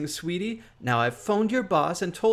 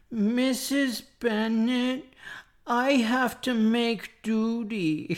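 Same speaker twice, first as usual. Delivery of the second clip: put-on small child talking voice; 4 semitones higher than usual. In a played-back recording, voicing a child speaking to Mrs. Bennett, little kid voice. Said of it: "I did the little kid voice".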